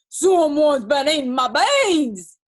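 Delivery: loud, slow, riled grizzly roar; gruff bear growl. A narrator's reading. Great big grizzly finding his dinner eaten, gruff growl. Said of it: "growled in his great big rough, gruff voice".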